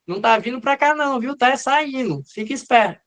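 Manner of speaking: high-pitched warning, only mildly shouted; mock calling out. AVR warning that the impulse is leaving, mock calling out. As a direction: play a lead calling out a warning. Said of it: "a A V R tá gritando o quê?".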